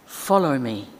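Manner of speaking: me stressed and falling; "Follow me" ending on a firm me. Shown as a demonstration. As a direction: land on me. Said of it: "the stress is on the different word".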